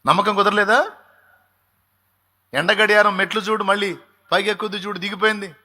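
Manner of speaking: excited high-pitched preaching; preaching at full force. Acted. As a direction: drive the story forward with fervor.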